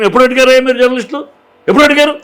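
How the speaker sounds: heated challenge thrown at the journalists, rising; indignant challenge. Real, not acted.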